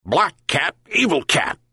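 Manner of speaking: high-pitched accusing dog voice; storybook dog's yelp. A narrator's reading. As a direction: yelp it in short high bursts. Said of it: "yelped the dog".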